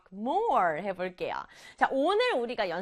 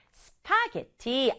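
slow spelling-out; slower than usual. Shown as a demonstration. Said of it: "요렇게 써요".

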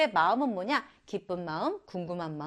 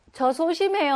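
small shy voice, pitched up; timid student voice; 8 semitones higher, 4 dB louder than usual. Retold or imitated. Teacher voicing a shy student, small and high. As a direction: play a timid kid owning up. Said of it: "하는 친구 있나요?".

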